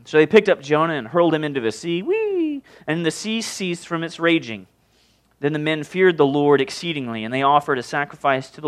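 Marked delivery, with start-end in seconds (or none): 2.0-2.6 high sustained "whee"; comic whee. Acted. Jonah hurled into the sea, a playful high whee.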